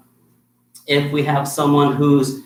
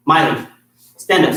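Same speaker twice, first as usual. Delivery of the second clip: louder, firmer call by name; firm command; 4 dB louder than usual. Shown as a demonstration. Instructor getting a distracted student's attention, firmly. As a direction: snap her attention back with a firm order. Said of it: "so that's a little bit more firm".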